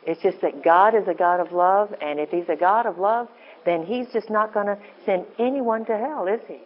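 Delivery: normal talking voice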